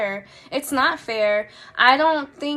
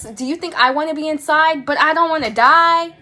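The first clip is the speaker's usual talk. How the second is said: outraged; 2 semitones higher, 6 dB louder than usual. Real, not acted. Outraged rhetorical question.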